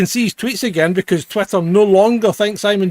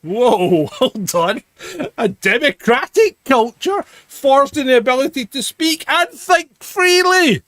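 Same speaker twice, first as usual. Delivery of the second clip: tweet read-out. Acted. Host reading the President's tweet aloud, building mock-grand delivery.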